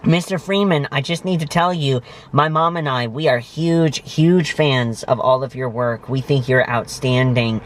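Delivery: starstruck gushing. Retold or imitated. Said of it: "and it was like".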